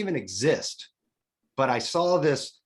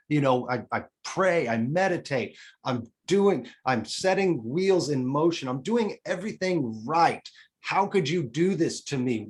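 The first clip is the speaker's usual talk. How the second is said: raised, anguished plea to the heavens; angry rant at God. Retold or imitated. Alone after the injury, raging at God with a raised voice. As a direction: demand answers, half shouting at God.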